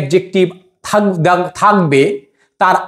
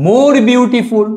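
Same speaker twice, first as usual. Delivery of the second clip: very slow, words drawn out for copying; slow dictation; 5 semitones higher, much slower than usual. Shown as a demonstration. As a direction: spell it out slowly like on a blackboard. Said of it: "তাহলে হবে কি". (ধীরে ধীরে বলা)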